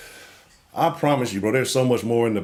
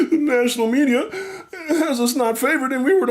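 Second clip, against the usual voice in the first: mocking fans; 13 semitones higher than usual. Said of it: "And when people say".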